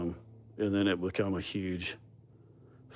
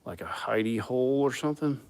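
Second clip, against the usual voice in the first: whispering; 6 semitones higher than usual. Retold or imitated. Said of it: "I'm like".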